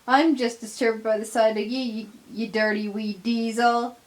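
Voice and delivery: fast, sneering Scots contempt; scornful Scottish insult. Acted. Donald sneering at the little diesel, fast and scornful. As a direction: spit the words at the little diesel.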